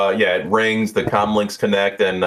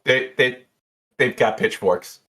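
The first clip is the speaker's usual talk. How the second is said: high, hurried panic; flustered bartender; 6 semitones higher than usual. Acted. Jeannie panicking as the bar brawl grows, high and hurried. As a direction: rush off the phone in alarm.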